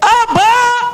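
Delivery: high-pitched, shouted cry. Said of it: "quando eu ouço alguém gritar assim".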